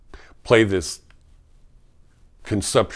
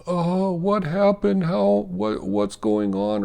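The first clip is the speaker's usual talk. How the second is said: imitating panicked patient; 10 semitones higher, slower than usual. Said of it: "sometimes they would go".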